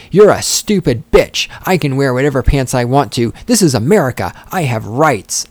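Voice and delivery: put-on a touch of a belligerent teenage son insisting; belligerent teen quote. Reading out the son's words to his mother, mildly belligerent. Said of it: "he insisted".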